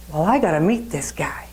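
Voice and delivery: a retold thought, whispered to himself; father privately scheming to meet the buyer, whispering; whispered musing. Whispered aside to himself about the buyer.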